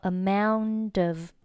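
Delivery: "amount of" run together as one word; linked pronunciation. Shown as a demonstration. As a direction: link the end of "amount" onto "of". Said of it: "连读成了". (amount of 连读)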